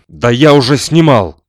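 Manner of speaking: loud, high furious roar; inhuman roar. Acted. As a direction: roar it out like a demon. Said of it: "Нечеловеческим голосом взревел". (нечеловеческий рёв)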